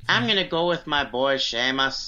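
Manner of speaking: put-on Irish accent drifting toward Jamaican; attempted Irish accent. Retrying the Sheamus pick, Irish accent heard as Jamaican. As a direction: have another shaky go at Irish. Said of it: "Irish accent".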